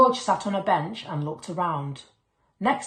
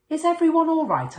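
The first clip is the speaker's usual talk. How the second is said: worried teacher; 11 semitones higher, 6 dB louder than usual. A narrator's reading. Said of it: "asked Missus Gray".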